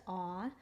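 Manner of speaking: AH held as a long open aw; vowel team sound. Shown as a demonstration. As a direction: draw out "ah" as one vowel sound. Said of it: "A U says".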